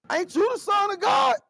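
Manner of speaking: a disciple protesting to his master; puzzled disciple. Retold or imitated. Disciple voiced in retold story.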